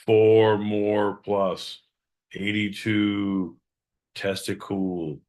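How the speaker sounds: slow, drawn-out imitation; slow mock voice. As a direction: drag out each word as a mockery. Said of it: "sort of like".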